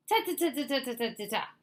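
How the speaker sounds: brisk dismissive ta-ta; interrupting fox. Acted. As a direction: cut him off with ta ta. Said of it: "interrupted Fox".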